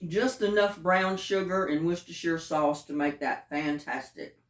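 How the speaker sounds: talking with a mouth full. Real, not acted. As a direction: say it while still chewing. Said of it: "Y'all have to forgive me".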